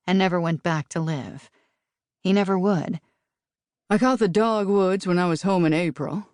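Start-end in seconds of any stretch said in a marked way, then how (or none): 3.9-6.3 lightly voiced easygoing Southern American accent; a hint of a friendly Southern accent, chatting; amiable Southern accent. A narrator's reading. Rob chatting to Nate about the dogwoods, light Southern accent. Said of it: "Rob said in his amiable Southern accent".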